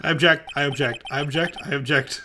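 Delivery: quick-fire repeated objection; rapid objecting. Acted. Defense trying to stop the chief's proposal, rapid objecting.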